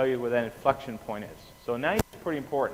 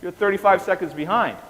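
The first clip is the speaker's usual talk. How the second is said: teasing gloat; 8 semitones higher, 6 dB louder than usual. Retold or imitated. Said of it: "It's like".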